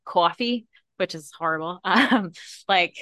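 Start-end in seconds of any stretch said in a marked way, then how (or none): 0.0-0.7 "Coffee" in a Rhode Island accent, open drawn-out aw, higher. Shown as a demonstration. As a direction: say "Coffee" like Boston fused with New York. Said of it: "if I was to say it, like, naturally".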